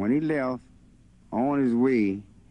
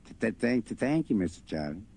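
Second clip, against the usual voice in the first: stammering. Acted. Boy stammering his thanks.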